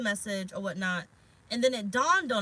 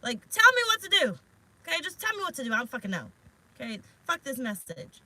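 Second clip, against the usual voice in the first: higher, louder exasperated demand; irritated; 4 semitones higher, 4 dB louder than usual. Retold or imitated. Reader retells snapping at Spirit, irritated and louder. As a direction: vent at Spirit, annoyed. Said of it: "I was irritated with Spirit".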